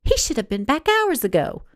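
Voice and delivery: eager news, a touch brighter in pitch; mild excitement about the visitor; excited. Acted. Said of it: "excitement brimming in her eyes".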